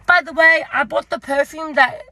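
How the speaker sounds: lightly imitated friendly shop assistant; a touch of gushing friendliness; chirpy staff greeting. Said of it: "First off, she goes".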